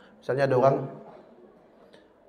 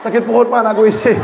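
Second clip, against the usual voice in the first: put-on child voice; 7 semitones higher, 4 dB louder, faster than usual.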